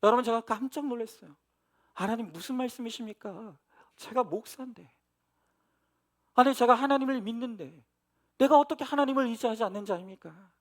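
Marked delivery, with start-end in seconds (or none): 1.9-10.5 startled protest. Retold or imitated. Pastor protesting to God, retold.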